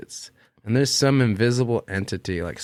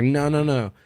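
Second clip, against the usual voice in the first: higher-pitched, mildly exasperated protest; pleading, indignant questions, pitched up; retold childhood anger; 6 semitones higher than usual. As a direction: imitate an upset kid demanding answers. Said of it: "angry at my mom".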